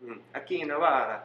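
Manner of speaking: lightly put-on Italian accent. Friend requests Italian, light mock Italian accent. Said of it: "like, Italian?".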